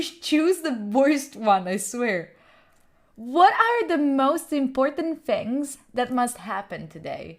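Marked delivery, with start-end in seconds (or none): 3.1-7.4 slow mantra reading. Shown as a demonstration. Reading a mantra to chat, slow and solemn. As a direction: read it slowly like a solemn self-help mantra. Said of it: "This is actually true".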